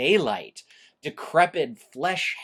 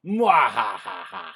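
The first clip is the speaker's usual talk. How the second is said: loud maniacal mwahaha; mad scientist; 4 semitones lower, 6 dB louder than usual. Shown as a demonstration. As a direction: let the evil laugh boom out. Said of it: "Uh, try doing, like".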